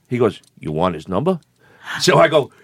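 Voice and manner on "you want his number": low, soft tough-guy voice on the phone; gruff caller voice. Retold or imitated. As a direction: growl it like a wiseguy caller.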